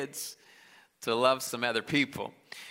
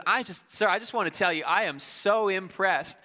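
higher-pitched, earnest imitation of a shopper; lightly voiced admiring woman; 6 semitones higher than usual. Woman praises dad in grocery store, lightly acted higher voice. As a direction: lightly play an impressed stranger.

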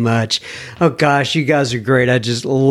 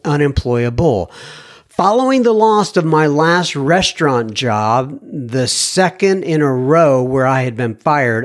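lightly raised reading voice; email read aloud; 2 semitones higher than usual. Acted. Host reads listener email to audience, lightly raised voice. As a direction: read the letter like you're quoting him.

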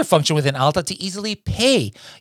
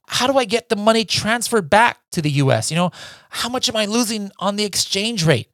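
higher, hammed-up British accent; mock British accent; 6 semitones higher than usual. Host voices a worried UK seller, mock British accent. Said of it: "I'm sorry for that accent".

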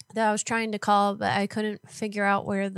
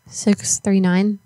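slow dictation; 7 dB louder, much slower than usual. Real, not acted. Reading phone number digits aloud.

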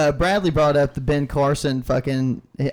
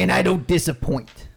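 put-on Trump accent; 3 semitones higher than usual. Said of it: "get that weird accent".

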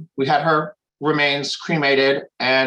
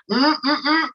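high-pitched fussing "mm, mm, mm"; little high hums of disapproval; mimed nagging noises; 9 semitones higher, slower than usual. Retold or imitated. Woman showing how she used to pester her sister, nagging hums. Mimes holding herself back from fussing.

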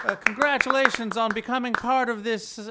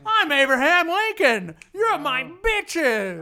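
berserk rage; 4 semitones higher than usual. Acted. Lincoln rants at cabinet.

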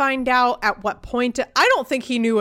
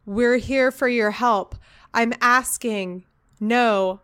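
flat, wooden line reading; monotone; slower than usual. Retold or imitated. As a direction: say it like a stiff beginner actor. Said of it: "like, monotone?".

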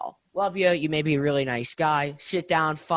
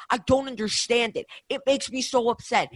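upset rant; 6 semitones higher than usual. Real, not acted. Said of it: "And you could hear it in my voice".

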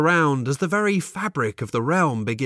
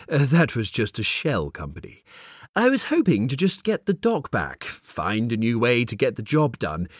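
mysterious man. Acted. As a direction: play the smug stranger. Mysterious man speaks in story.

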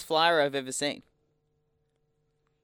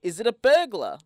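pitched way up, a mock startled squeal; mock alarm; 7 semitones higher, 3 dB louder than usual. A stranger startled by the mask, voiced high and alarmed. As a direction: play a spooked passer-by, high and rattled.

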